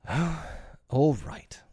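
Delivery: high, loud, exasperated surrender; reluctant giving in. A narrator's reading. Peter yielding to the lady at last, reluctant. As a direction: give in at last with a burst. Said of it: "he said at last and gulped".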